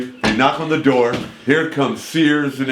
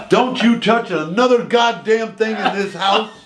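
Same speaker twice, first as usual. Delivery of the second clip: put-on high-pitched scolding old lady; imitating an outraged elderly homeowner; furious old woman; 10 semitones higher than usual. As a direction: rail at the intruder in a high, irate voice. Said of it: "This old eighty-year-old woman hits me".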